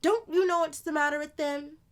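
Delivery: put-on older sister voice. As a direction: play the lively older sister telling a tale.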